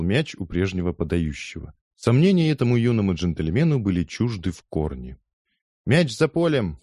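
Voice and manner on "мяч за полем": high shouted call of the crowd. Acted. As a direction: call it out, much higher. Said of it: "раздалось с дюжину голосов".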